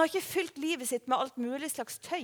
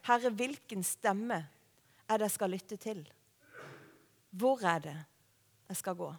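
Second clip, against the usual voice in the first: quiet, searching plea to God; prayer; 4 semitones lower, 6 dB quieter than usual. Acted. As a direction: ask softly and low, sinking toward the end. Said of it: "Det er kanskje bønnen du skal be".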